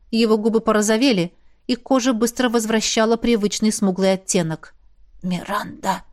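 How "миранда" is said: soft breathy whisper of a name. A narrator's reading. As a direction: barely breathe her name out. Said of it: "прошептал он".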